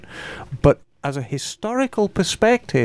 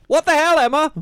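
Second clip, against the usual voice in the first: mock outrage; 11 semitones higher, 3 dB louder than usual. Mock outrage reading listener email.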